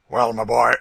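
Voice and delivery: loud, sneering slaveholder voice; a brutal master mocking his victim; Legree's cruel taunt. A narrator's reading. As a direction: gloat over the beaten man. Legree taunting beaten Tom.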